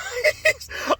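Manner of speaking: brief high squeal of laughter; short laugh. Real, not acted. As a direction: laugh briefly at your own muddle. Laughs at own disorganized start.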